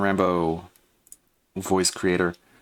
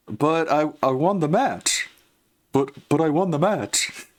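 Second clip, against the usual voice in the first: pitched up, pinched-nose cartoon voice, a rough first try; nasal John Rambo impression; 6 semitones higher than usual. Shown as a demonstration. Recording lines for an animation, a first nasal John Rambo attempt. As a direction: squeeze the voice up into the nose. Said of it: "pretend like my nose is three times the size of my head".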